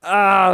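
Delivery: short hurt groan; pained groan. Retold or imitated. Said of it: "he goes".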